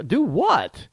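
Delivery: high-pitched, unwitting Southern twang; Southern drawl. Retold or imitated. Puzzled man asking coworkers what they mean, Southern drawl. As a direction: slip into an imitated Southern drawl. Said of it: "You're talking in a Southern drawl".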